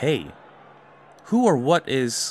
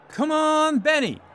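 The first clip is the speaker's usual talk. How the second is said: cheering on; 10 semitones higher than usual. Acted. Cheering from the stands.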